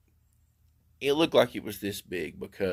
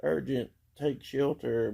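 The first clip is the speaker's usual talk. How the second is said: mock alert; 4 semitones higher, slower than usual. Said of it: "It's like".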